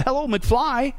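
high, mock exasperated rebuke; exasperated scolding. Paul scolding the confused Christians, hammed-up exasperation. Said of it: "to the Chrome vernac".

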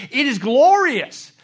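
joyful exclaim. Retold or imitated. Quoting a joyful deathbed.

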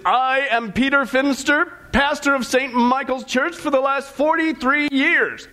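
slow, grand, mock-pompous declaration; booming announcement. Minister presenting himself to Saint Peter, booming. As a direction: boom it out slowly, acting important. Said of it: "he booms out".

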